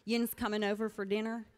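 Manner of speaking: Ozark dialect. Retold or imitated. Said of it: "but we would say things like".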